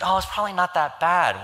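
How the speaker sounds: lightly acted "there, there" consolation; comforting. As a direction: imitate parents soothing a child. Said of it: "They try to comfort her".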